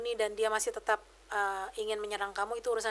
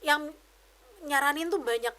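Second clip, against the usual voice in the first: usual speaking voice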